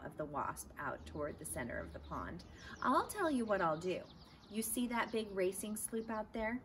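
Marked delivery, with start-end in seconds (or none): 2.8-6.6 owner. Acted. Owner voiced pointing.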